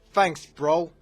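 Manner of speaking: loud, high mock New Jersey sign-off; put-on New Jersey accent. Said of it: "I'm from New Jersey".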